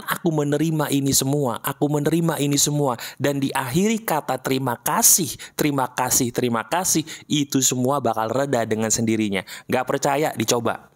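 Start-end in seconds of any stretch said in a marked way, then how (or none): 0.0-7.0 lower, gentle self-talk; calm affirmation. Shown as a demonstration. Coach showing the listener what to say, calm and lower. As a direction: soothe yourself with each thank you. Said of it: "ketika diri kamu mengatakan".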